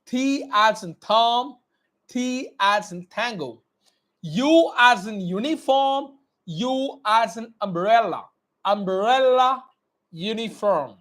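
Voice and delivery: slow, clearly mouthed letter drill; teacher drilling phonetic alphabet; slow dictation. Shown as a demonstration. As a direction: model every sound slowly. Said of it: "look at my mouth movement".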